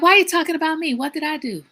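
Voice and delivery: mom voice. Retold or imitated. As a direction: mimic mom's offended question. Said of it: "she's like".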